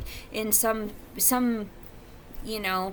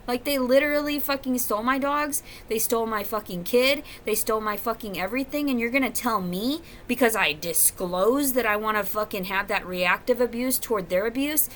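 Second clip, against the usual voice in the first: loud, high, swearing outburst; real fury spilling over; furious rant; 3 semitones higher, 4 dB louder than usual. Real, not acted. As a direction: rage at the people who took her dogs, shouting. Furious rant about stolen dogs.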